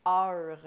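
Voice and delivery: drawn-out French "heure" for English ER; ER becomes "heure". Retold or imitated. Cohost demonstrates her friend's accent, stretched French "heure". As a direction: say "heure" slowly, a full French vowel and R. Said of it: "E R, ça devient".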